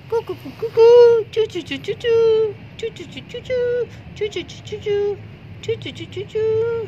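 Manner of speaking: very high chirping; bird chirps. Acted. Little bird calls Barbie for help, very high chirps.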